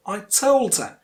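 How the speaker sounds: "her" said as a weak "er", no h; weak form of HER. Shown as a demonstration. Teacher modelling weak forms for learners, "her" as "er". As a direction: stress "told", reduce "her" to "er". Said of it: "instead you say a".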